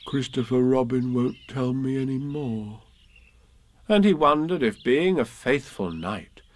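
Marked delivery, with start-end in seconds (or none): 0.1-2.8 mildly downcast bear voice; sad musing. Acted. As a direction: say it to yourself, a touch sad. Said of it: "he said sadly to himself".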